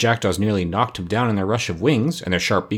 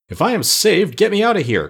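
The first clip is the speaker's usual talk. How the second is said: high, louder call from under the sofas; a pumpkin head calling for help, pitched up; 9 semitones higher, 4 dB louder than usual. Acted. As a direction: call out to be pulled free. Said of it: "called Jack".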